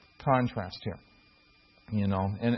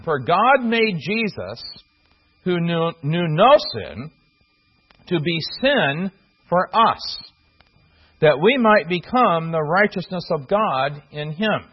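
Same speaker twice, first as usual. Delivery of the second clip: slow, deliberate reading of the verse, each phrase set apart; slow scripture reading. Shown as a demonstration. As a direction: read the verse slowly, weighing every phrase. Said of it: "you can actually translate, the verbs ... the same".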